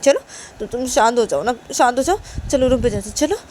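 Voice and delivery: pleading, trying to soothe; coaxing plea. Acted. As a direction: gently implore an upset loved one. Uma begs Sanju to calm down.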